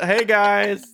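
high bright "hey guys"; mock cheery greeting. Arriving at the event, greeting friends with mock cheer. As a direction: pretend nothing's wrong.

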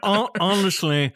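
lightly put-on rich conservative voice; a hint of a snooty old-money pundit; William F. Buckley. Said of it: "a cross between your rich guy voice and that conservative from the seventies".

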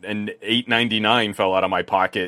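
loud, high fake "oops"; mock dismay. Joking that nobody buys an expensive phone by accident, mock dismay. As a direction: play up the innocent accident, starting loud and high.

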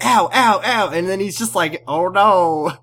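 hammed-up yelps of pain; mock pain cries. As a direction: imitate someone in pain, playfully. Acting Amy's contraction pains.

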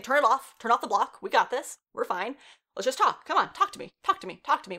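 acted-out begging in quick repeats; insistent pleading. Retold man begging to be unblocked.

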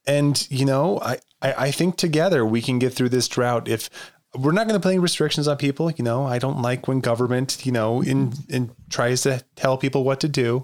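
lightly hushed, calming politician voice; a hint of a soothing official speaking; library voice. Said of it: "I like your library voice".

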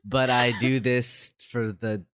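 congested, under the weather; sick voice. Real, not acted. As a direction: talk through a cold, ill and tired. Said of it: "of my sick voice".

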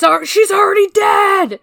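high, loud exclamation; excited outburst. Real, not acted. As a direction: burst out in disbelief. Exclaiming about the plot.

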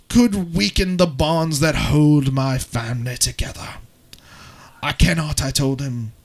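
put-on a broken English accent for a dramatic blog reading; a shaky attempt at a British accent, read with drama. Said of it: "the English accent".

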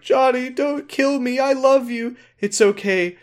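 high put-on pleading mother; mock tearful mom. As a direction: beg and forgive in a hammed-up voice. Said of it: "she's like".

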